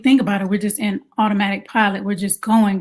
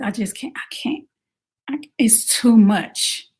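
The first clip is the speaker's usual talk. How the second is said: worn out. Retold or imitated. Overwhelmed mom at her limit, exhausted near-whisper. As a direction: fade out as if you can't go on.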